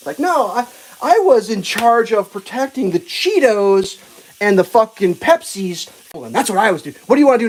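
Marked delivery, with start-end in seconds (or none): 1.0-5.9 mock agent voice. Mock agent explaining her job.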